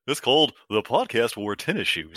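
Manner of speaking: a light put-on voice with a laugh; a hint of another voice, half laughing; host doing Robbie. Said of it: "as if you're me saying it, as if I'm Robbie".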